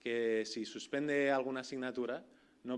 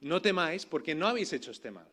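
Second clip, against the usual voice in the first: raised, insistent reassurance; louder emphatic quote; 6 dB louder than usual. Retold or imitated. Preacher voicing the other answer, louder. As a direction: push it out to the room. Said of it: "o diríamos".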